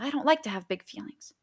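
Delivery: a hint of a child's protest; lightly voiced child. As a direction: object like an upset kid, lightly acted. Retold upset child objecting to adult.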